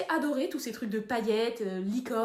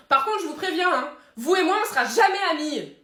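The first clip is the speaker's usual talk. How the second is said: louder, higher threat; stern warning; 5 semitones higher, 7 dB louder than usual. Acted. Angel warning the accountant they will never be friends, stern. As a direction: lay down the law.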